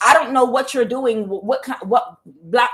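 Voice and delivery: wife pushing back at her husband, upset and loud. Retold or imitated. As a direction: stammer it out, upset and indignant. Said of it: "she was really getting upset".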